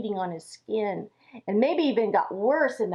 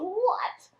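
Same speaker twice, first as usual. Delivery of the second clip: higher, huffy shocked protest; mock indignant yelp, then grumbling; indignant outrage; 4 semitones higher than usual. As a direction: scoff like an offended captain. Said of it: "Now, he was very angry".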